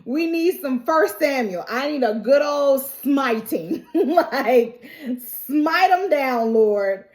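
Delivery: eager, high call for smiting; gleeful. Real, not acted. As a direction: relish every word of it. Gleefully calling for biblical smiting.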